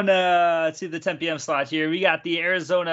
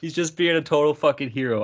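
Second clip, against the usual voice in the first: real amusement breaking into the words; cracked up, chuckling mid-story; can't stop laughing. Real, not acted. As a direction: tell it while trying to stop laughing. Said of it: "I can't stop laughing right now".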